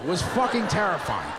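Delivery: ordinary delivery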